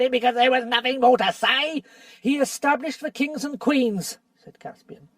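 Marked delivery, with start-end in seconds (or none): 2.2-4.2 a scoffing dwarf, building louder; lightly voiced bitter dwarf; sneering dwarf. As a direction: needle Caspian with rising scorn. Nickabrick voiced in the story.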